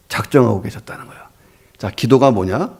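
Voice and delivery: normal talking voice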